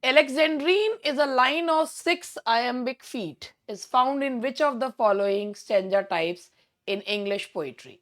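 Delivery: unhurried, deliberate question reading; slow quiz reading. Acted. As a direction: read the question out slowly to the class. (धीमे-धीमे प्रश्न पढ़ते हुए)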